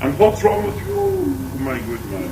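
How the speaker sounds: hammed-up posh Queen. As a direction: put on a posh royal lady voice. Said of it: "The Queen says".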